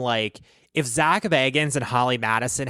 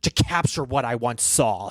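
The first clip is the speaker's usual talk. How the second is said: Zach Bagans. Acted. Ghost hunter introducing himself and his quest, solemn host impression. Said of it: "I can do a really good Zach impression".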